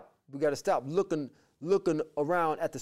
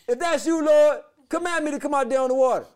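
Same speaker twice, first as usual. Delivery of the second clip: brash Peter; 10 semitones higher, 9 dB louder than usual. Retold or imitated. Peter challenges Jesus.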